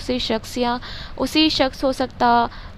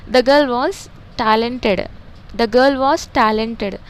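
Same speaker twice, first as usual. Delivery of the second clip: put-on the girl was talented, very slowly; slow dictation; 4 dB louder, much slower than usual. Shown as a demonstration. Teacher dictating the second-mention sentence, very slow. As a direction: spell it out slowly, twice. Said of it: "यहाँ पे जैसा बोल रहा हूँ देखो".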